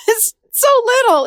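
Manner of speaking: high laughing lift on It's so little; laughing fondly. Real, not acted. Therapist laughing about the young part, high laughing tone. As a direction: laugh through it with tender amusement.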